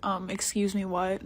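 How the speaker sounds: understated retold irritation, kept quiet; tight, annoyed. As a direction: ask it softly, taken aback and not amused. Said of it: "I was tight. I was like".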